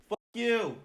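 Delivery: high, sharp outburst at the spider; cursing the spider in the foam. Real, not acted. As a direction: spit it at the bug.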